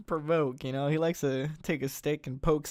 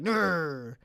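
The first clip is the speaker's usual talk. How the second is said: mock growl; 3 dB louder than usual. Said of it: "and you're like".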